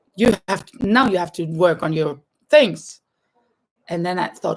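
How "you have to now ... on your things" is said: strict, harsh scolding tone. Retelling telling a silly pupil to get to work: retelling a strict scolding. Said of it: "So I was a bit, uh, strict with him".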